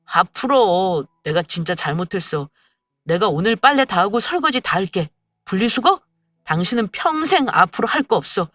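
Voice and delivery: husband begging sweetly for forgiveness; lightly voiced pleading husband; humble pleading. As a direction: grovel gently to calm her. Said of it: "한껏 낮은 자세로".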